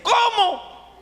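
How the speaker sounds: high, stunned question; astonished what. Retold or imitated. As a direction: gasp it out in disbelief. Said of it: "Así yo le dije".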